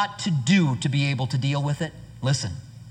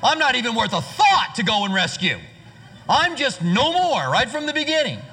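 mocking self-pity; 8 semitones higher than usual. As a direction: whine it like a sulking brother left behind. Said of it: "He's like".

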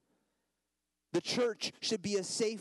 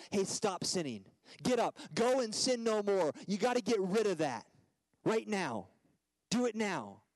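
harsh scolding; 3 semitones higher than usual. Retold or imitated. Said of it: "No, I restore him gently".

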